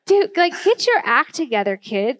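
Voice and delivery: retold fed-up parent; mad. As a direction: scold the kid, dropping on the last word. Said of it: "I was just so mad".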